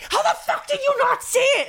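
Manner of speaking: high, laughing mock outburst of a frustrated dad. Dad snapping at daughter over math homework, mock frustrated outburst. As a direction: play the exasperated father at homework time, half laughing. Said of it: "He'd get so frustrated".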